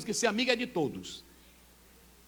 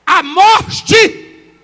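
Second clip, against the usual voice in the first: loud start then slow; preaching emphasis; 9 semitones higher, 17 dB louder than usual. Acted. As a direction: repeat the climax weightily. Repeat of climax.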